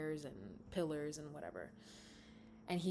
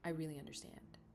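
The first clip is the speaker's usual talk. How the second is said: much softer, sliding into a whisper; 2 semitones lower, 9 dB quieter than usual. Acted. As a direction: confide it gently under your breath. Salim confides softly to the Queen.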